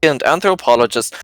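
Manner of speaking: put-on grandiose German-accented self-introduction; pompous German noble. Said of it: "the German".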